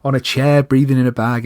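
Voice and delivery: mock dismissive. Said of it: "'cause you're like".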